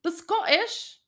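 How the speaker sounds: badly faked Scottish accent; clumsy stab at a Scottish accent; terrible Scottish accent. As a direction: attempt a Scottish accent and miss. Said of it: "That's a terrible accent".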